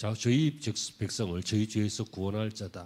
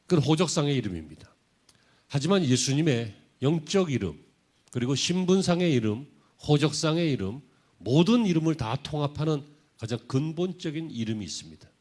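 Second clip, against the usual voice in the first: emphatic preaching; 5 semitones higher, 7 dB louder than usual. Real, not acted. Preacher builds to main point.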